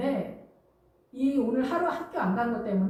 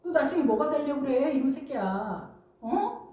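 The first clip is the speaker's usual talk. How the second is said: mock scolding with a rising final demand; nagging mother. Mother frets over her child's future, mildly acted nagging. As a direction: imitate an exasperated mom, lightly. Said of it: "엄마 입장에서 왜 이렇게 잔소리를 해요".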